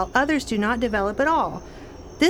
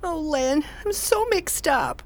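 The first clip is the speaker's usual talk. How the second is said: laughing; 6 semitones higher, slower than usual. Acted. Laughing helplessly, confused.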